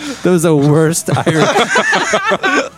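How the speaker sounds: high, slow pirate-ish voice; hammed-up pirate growl; mock pirate drawl. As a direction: drag it out like a pirate. Mocking a bad accent.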